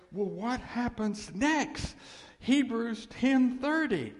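loud, slow, soaring pulpit build; rising to a booming sermon climax; preaching at full force. Real, not acted. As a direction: thunder it out to the congregation.

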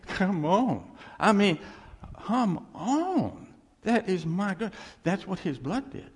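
high, loud shout of praise; rally the congregation, full voice; fired-up preaching. Real, not acted. Preacher calling the church to shout amen, loud. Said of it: "preaching at full force".

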